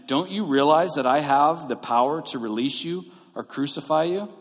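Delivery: measured, emphatic retold demand; lightly acted show of authority. Pilate asserting his power over Jesus, mildly demanding. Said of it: "Pilate demanded".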